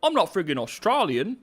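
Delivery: high, hammed-up Cockney protest; mock-outraged Cockney. Streamer correcting those who call the accent Australian, mock-indignant Cockney. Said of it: "I'm friggin' Cockney now".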